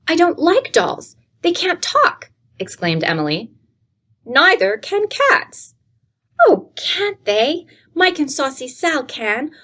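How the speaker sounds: put-on a small girl begging for her pets; pleading little girl.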